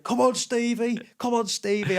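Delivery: high, excited mock egging-on; Jack Grealish. Player mimicking teammate urging a drink, high coaxing. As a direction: egg him on in a high imitated voice.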